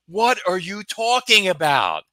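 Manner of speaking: you have no clue what she means; baffled. Retold or imitated. His retold confusion.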